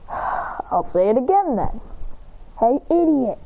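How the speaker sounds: altered slow threatening voice; menacing caller voice. Retold or imitated. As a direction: growl the insult down the line. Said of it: "He goes".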